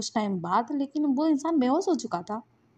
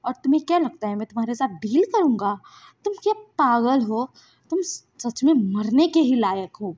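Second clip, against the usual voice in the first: louder, indignant rebuke; angry tirade; 4 dB louder than usual. Acted. Wing berating the man while punching him, angry. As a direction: hurl scornful questions with moderate heat. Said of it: "तो wing ना गुस्से में था".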